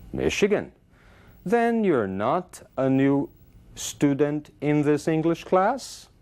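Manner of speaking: slow, high-pitched questioning tone of doubt; doubtful question. Acted. Teacher voices a student doubting the newcomer is new, doubtful question. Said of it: "um tom de dúvida que ela dá".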